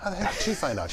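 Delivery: retold bafflement; mock exasperation. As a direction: throw up your hands. Teller's own exasperated retold question.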